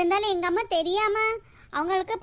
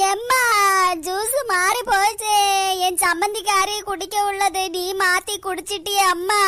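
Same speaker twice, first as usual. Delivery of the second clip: tearful wail; 3 semitones lower than usual. Acted. Daughter wails over fainted mother.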